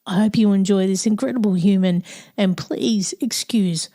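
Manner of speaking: real croaky, rough-edged voice. Real, not acted. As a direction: talk through a croaky throat. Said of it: "please excuse my croaky voice".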